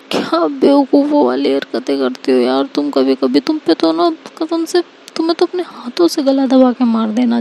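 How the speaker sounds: scolding Anika. Acted. Anika scolding Seerat for eating the kheer, fast mock-angry rant. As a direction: scold her like a worried friend.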